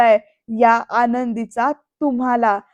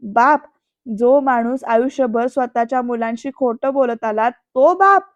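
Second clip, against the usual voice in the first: irritated outburst; 6 dB louder than usual. Retold or imitated. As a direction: throw the word back in loud, angry disbelief. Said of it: "असं इकडे चिडून परत म्हणतो".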